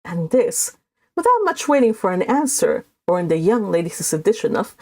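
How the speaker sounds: steady read-aloud narration; story narration. A narrator's reading. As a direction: read the novel to the group, measured and even. Narration between quotes.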